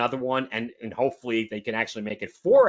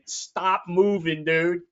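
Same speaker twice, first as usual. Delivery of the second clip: raised, slow mock quarterback yell; imitated yell; 6 semitones higher, slower than usual. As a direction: holler it slowly at a teammate, half-full voice. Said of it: "He's yelling at Wilson".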